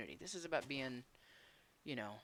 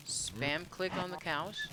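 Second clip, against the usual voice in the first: whistling s; 3 semitones higher, slower than usual. Real, not acted. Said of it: "Sorry for the whistle. New dentures".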